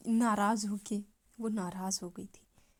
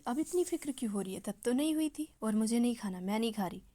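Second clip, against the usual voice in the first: bitter refusal; faster than usual. Acted. Shefali refusing the food Miss Kapoor offers, bitter and sharp. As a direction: throw her concern back at her.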